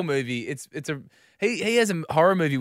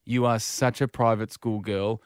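very slow, despairing mock exasperation; exasperated colleague; 3 semitones lower, slower than usual. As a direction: spell it out slowly in despair. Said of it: "His head goes into his hands".

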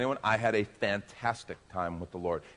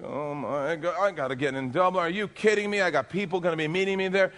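intense frustration; 8 semitones higher, 3 dB louder than usual. Retold or imitated. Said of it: "but I was pretty intense".

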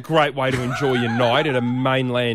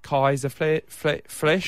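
put-on German accent; 2 semitones lower, much slower than usual. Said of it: "Don't do the accent".

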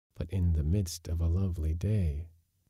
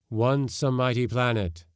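grave spirit voice; ghost warrior Till; 6 semitones higher, 3 dB louder than usual. A narrator's reading. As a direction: lament a lost world. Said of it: "said Till of Rathalar".

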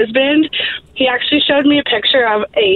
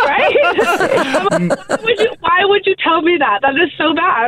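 disgusted laughter; 5 semitones higher, slower than usual. Real, not acted. Laughing about husband story.

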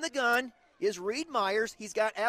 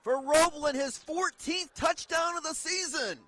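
excited; 4 semitones higher than usual. Real, not acted. Follow-up after touchdown.

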